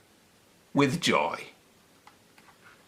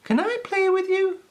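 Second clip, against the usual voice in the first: tag. A narrator's reading. Peppy asks the snails.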